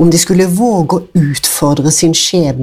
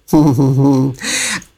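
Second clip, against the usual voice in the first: goat chuckle; 2 semitones lower than usual. A narrator's reading. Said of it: "knegget godt i skjegget".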